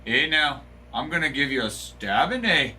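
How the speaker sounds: breezy Canadian threat, eh tagged on; light fake Canadian lilt; joking Canadian accent to a friend; mock Canadian accent. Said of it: "Did I nail the accent".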